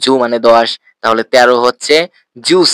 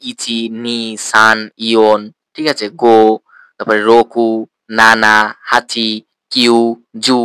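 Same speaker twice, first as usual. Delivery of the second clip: counting drill; 2 semitones lower, slower than usual. Shown as a demonstration. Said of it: "দশ পর্যন্ত গণনাটা শেষ করেন".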